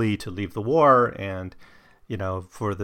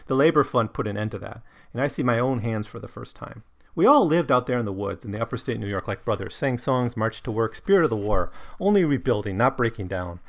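animated reading of a character's speech, lightly acted; character's dialogue read aloud. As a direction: read out his proud speech with some life.

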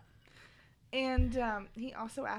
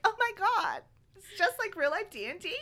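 higher, louder, eager gush; excited; 10 semitones higher, 7 dB louder than usual. Retold or imitated. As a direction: geek out over it, fast. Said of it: "Simon ends up being totally into it".

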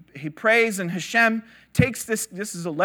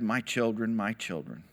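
soft, low, fond words of a smiling father; lightly voiced God, amused and tender; fond chuckling tone; 11 semitones lower, 8 dB quieter than usual. God amused at the sages, softly fond. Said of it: "he smiled, and he laughed".

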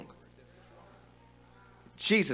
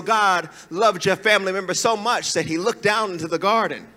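mock spiritual, anointed; 2 semitones lower than usual. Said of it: "we sound so spiritual and so anointed".

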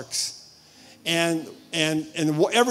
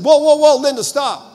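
high, loud burst to halt someone; urgent interruption; 7 semitones higher, 7 dB louder than usual. Retold or imitated. Husband breaks into his wife's praying, urgent and loud. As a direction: cut in urgently, pitched up.

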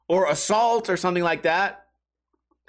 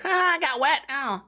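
high mock whine about getting wet; mock whiny self; 7 semitones higher than usual. Comic self mocking after fleeing waves. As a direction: play your scared self squealing.

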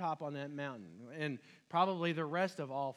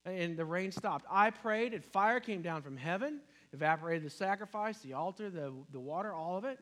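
complaining; 5 dB louder than usual. Retold or imitated. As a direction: list your deeds to God in a put-upon voice. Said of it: "responded with a list of whining and complaining".

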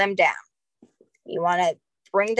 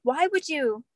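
incredulous retelling; 2 semitones higher than usual. Retold or imitated. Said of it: "we're like".

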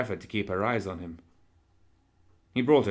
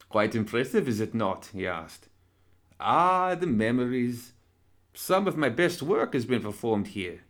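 suave villain doctor; 3 semitones higher than usual. Acted. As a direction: purr it like a polite fiend. Villain doctor shows his theatre.

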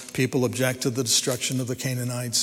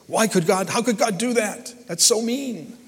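mock objector; 7 semitones higher than usual. Voicing an objector's complaint.

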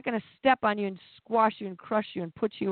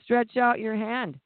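gentle command; 3 semitones higher, slower than usual. Retold or imitated. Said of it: "He just said to him".

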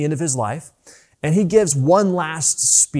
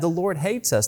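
quiet mock despair; 4 semitones higher, 4 dB quieter than usual. Preacher voices the frightened people, quiet and defeated. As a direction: let it sink into hopeless self-pity. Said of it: "That's what they said".

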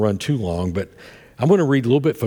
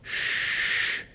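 soft shush; 8 dB quieter than usual. Retold or imitated. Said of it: "I heard".

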